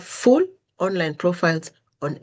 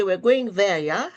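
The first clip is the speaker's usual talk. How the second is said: yeah rising for confirmation; question tune; 3 semitones higher than usual. Shown as a demonstration. Waiting for the other person's confirmation, yeah rising. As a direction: lift "yeah" asking for a reply. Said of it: "you're waiting for a confirmation".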